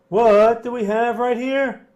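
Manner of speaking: high, drawn-out comic question; Seinfeld. Shown as a demonstration. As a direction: stretch the question out in a high-pitched comedian's impression. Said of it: "Here comes my Seinfeld impression".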